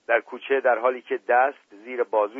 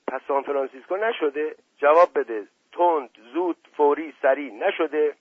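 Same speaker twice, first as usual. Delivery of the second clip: quick, pushing questions, louder on answer me; pressing teasingly; 4 semitones higher, 4 dB louder than usual. Acted. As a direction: demand an answer, joking. Asadollah presses the boy.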